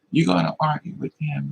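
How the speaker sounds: normal talking voice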